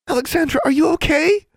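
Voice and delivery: put-on high, loud anxious girl's voice; worried. A narrator's reading. Friend leans over the dazed girl, high and worried. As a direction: fret over your fallen friend. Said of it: "Anna sounded worried".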